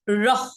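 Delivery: "রহ" flapped with a puff of breath, like "rho"; aspirated r. Shown as a demonstration. Teacher demonstrating the aspirated r, breath released. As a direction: release breath right after the r in "রহ". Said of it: "তিনটা র কিভাবে".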